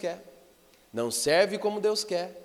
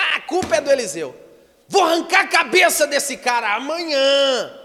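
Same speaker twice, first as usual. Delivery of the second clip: high, loud outburst of blame; enraged king; 7 semitones higher, 8 dB louder than usual. Retold or imitated. Preacher acting out the king blaming Elisha, enraged. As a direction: roar it out as the furious king. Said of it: "ele ficou tão revoltado".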